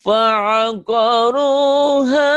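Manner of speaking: fa'aqaruha drawn out high and very slow; teacher modelling Quran reading; Quran recitation model. Shown as a demonstration. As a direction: recite fa'aqaruha with long held vowels. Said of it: "Jadi mau".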